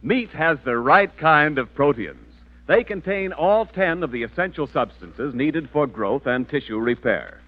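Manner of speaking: upbeat announcer selling meat; 1940s radio commercial voice; ad read. Acted. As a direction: sell it like a radio ad. Sponsor ad read.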